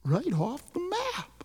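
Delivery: soft, low aftermath; hushed. A narrator's reading. Narrator revealing the dentist vanished, hushed voice. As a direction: drop suddenly to a hush.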